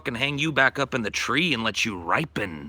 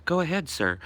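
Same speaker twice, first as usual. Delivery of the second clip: higher, prim phone-answering voice; mock Anita Sarkeesian; 5 semitones higher than usual. Streamer voicing Anita Sarkeesian taking a complaint call, higher and prim. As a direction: pick up the call like a prissy receptionist. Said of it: "this is Anita Sarkeesian".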